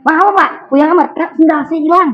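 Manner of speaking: a worshipper whines to the caretaker about his lost sandal, high and aggrieved; upset worshipper. Retold or imitated. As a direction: act the man wailing that his sandal is gone.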